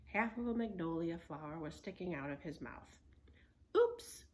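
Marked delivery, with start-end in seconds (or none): 3.8-4.2 high, loud startled oops; surprised. Acted. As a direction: yelp it out caught. Annie caught, high loud.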